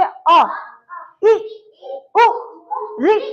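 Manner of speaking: अ इ उ री said short and quick; short vowels. Shown as a demonstration. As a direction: clip each short vowel. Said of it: "इनका उच्चारण कीजिए".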